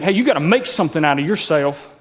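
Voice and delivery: a light hint of a stern dad's voice; lightly voiced dad lecturing his son; Ivan voice. Dad pushing his son, barely voiced as Ivan. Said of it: "I just did the Ivan voice there".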